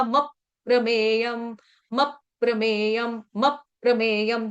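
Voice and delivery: "मप प्रमेयम" with a stop on मप; stress on मप. Shown as a demonstration. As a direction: hit "मप", then let "प्रमेयम" follow. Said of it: "आघात लगाएंगे म के ऊपर आधे म का". ("मप प्रमेयम" में म पर आघात)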